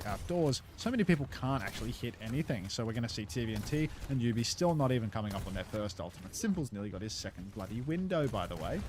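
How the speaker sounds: esports play-by-play. Acted. Casts the Overwatch match.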